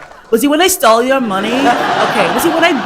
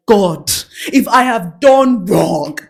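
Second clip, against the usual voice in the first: mock prayer; 4 dB louder, slower than usual. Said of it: "I think they're like".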